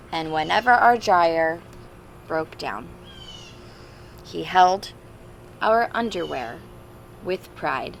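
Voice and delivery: storybook read-aloud. Acted. Teacher reading a picture book to the class, storybook voice. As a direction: read it like a father's letter to his kids.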